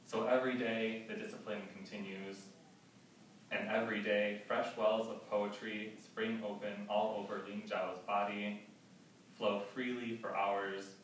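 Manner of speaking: deliberate, evenly paced verse recital; poetry reading. Acted. Poet reading a prison guard's account in verse, measured recital. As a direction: recite it phrase by phrase, with weighted pauses. Reads epigraph and poem.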